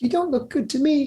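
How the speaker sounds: small piping voice, very high. Voicing a tiny being that speaks to a player in a game: very soft, tiny voice. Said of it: "it's so soft".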